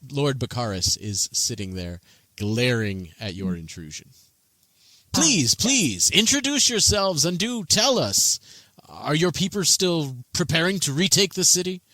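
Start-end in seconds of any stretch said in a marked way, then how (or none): 5.1-11.8 higher, louder, keenly inviting; eager governor. Acted. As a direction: press them warmly for news.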